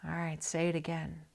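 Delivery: hushed unvoiced whisper; retold bedside whisper. Whispered bedside exchange with dad.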